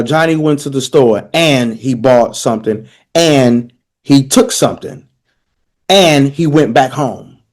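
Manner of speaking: "and" set apart and stressed each time. Shown as a demonstration. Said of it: "And, and, and, vav consecutive".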